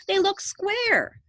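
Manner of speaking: put-on high, slow, whining spoilt girl; Veruca. A narrator's reading. Veruca Salt stubbornly insisting, slow and high. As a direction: drag it out sulkily. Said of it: "said Veruca Salt".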